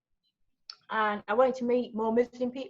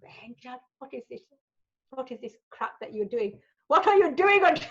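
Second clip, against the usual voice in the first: put-on Indian accent; 4 dB louder than usual. Mum scolding daughter on air, rising Indian-accented outrage. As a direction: imitate an Indian mother working up to outrage. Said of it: "I keep putting this Indian accent on".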